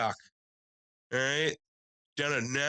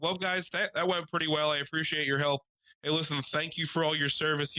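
mock polite thanks; 5 semitones higher than usual. Over-polite thanks to cops.

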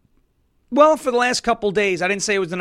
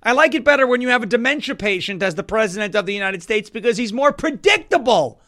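mock Putin; 4 semitones higher, 4 dB louder than usual. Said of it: "Putin's like".

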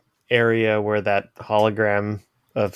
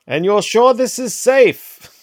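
high, loud worried question; nervous question; 11 semitones higher, 5 dB louder than usual. Acted. Character doubts portal safety.

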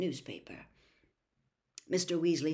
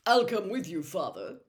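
importantly; 3 semitones higher, 6 dB louder than usual. A narrator's reading. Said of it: "said Percy importantly".

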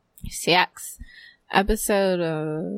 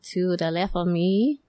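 playful mock Asian accent. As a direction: play with a hint of an Asian accent. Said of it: "that first one sounded kinda Asian".

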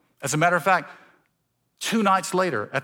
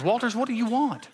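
much higher mock-exasperated voice with a laugh; God, amused; 9 semitones higher than usual. God looking down at the impatient pastor, laughing. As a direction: play God teasing, laughing. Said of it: "he looks down and goes".

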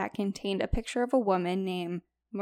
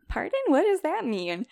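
confused woman voice; 8 semitones higher, 5 dB louder than usual. Retold or imitated.

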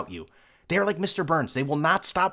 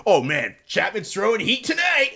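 high, slow gleeful fan voice; hammed-up cheering for the closer; mock excited fan; 9 semitones higher, 3 dB louder, slower than usual. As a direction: hypocritical fan suddenly thrilled.

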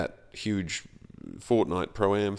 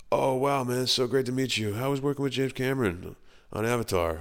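mock starstruck fan; 6 semitones higher than usual. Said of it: "there was also the, like".

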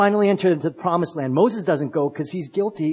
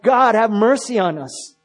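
raised, louder plea for mercy; crying out; 5 semitones higher, 4 dB louder than usual. Retold or imitated. Enslaved people to God after four hundred years, crying out. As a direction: imitate a people calling out to God. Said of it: "they cry out".

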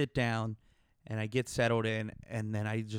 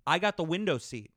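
higher, insistent no no no; firm refusal; 4 semitones higher than usual. Retold or imitated. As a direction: shut him down firmly. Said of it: "And I said".

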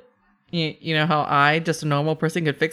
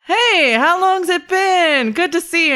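cheerful gnome voice; 13 semitones higher, 5 dB louder than usual. Acted. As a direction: greet him like a bubbly gnome. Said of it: "she switches to common and she goes".

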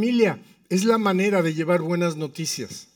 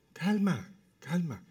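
soft hushed calming; quiet, placating voice; retold soothing; 6 dB quieter, slower than usual. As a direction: imitate a wife gently settling her husband. Wife calming impatient husband, retold.

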